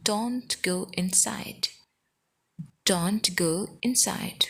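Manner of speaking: stretched, careful teaching pace; slow demonstration of a short sentence; slow model repeat. Shown as a demonstration. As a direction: draw the words out for learners. Teacher repeats sentence slowly for learners.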